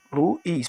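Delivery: "Luiz" in two separate syllables. Shown as a demonstration. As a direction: break "Luiz" into lu, iz. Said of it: "porque não está sozinho".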